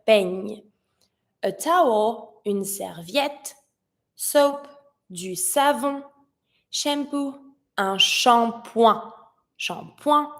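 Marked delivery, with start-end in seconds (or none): 0.1-0.6 peigne with a clearly heard ñ ending; clear ñ sound. Shown as a demonstration. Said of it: "I need to hear the ñ". 7.8-10.3 shampoing with the final g silent; silent last letter. Shown as a demonstration. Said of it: "I don't pronounce the last letter".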